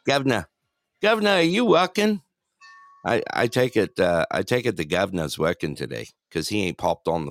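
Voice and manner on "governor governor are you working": put-on dropped-r accent on governor; lightly imitated dropped-r accent; Finley-like accent. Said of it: "I almost sounded like Finley".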